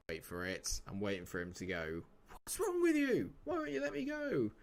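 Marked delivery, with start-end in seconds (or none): 2.3-4.5 whining player. Acted. Player begging manager to let him go, high mock whine.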